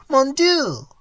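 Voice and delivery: rising despairing cry. Acted. Old man's despairing cry.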